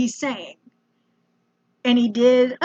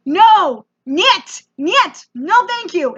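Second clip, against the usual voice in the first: exasperated refusal; 4 semitones higher, 3 dB louder, much slower than usual. Retold or imitated. Acted refusal to insistent host.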